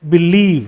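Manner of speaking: Believe, stressed on LIEVE; stress on second syllable. Shown as a demonstration. Teacher reading two-syllable words to learners, stress on LIEVE in Believe. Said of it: "second syllable पे आ रहा है".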